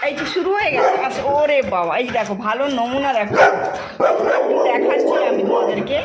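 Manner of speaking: loud, amused narration of pets scuffling; excited commentary. Real, not acted. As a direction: call out the dog fight gleefully. Dogs start play-fighting.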